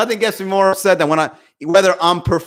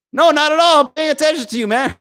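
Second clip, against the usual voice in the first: nervous defensive reply; 10 semitones higher than usual. Retold or imitated. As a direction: hastily insist you mean no harm. Imitating the other person's defensive answer.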